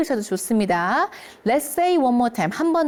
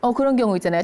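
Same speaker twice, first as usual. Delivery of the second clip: ordinary talk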